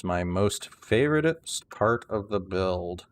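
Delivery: slow, drawn-out sarcasm; sarcastic. Real, not acted. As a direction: feign love for it, dragging the words out. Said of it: "Can you hear the sarcasm?".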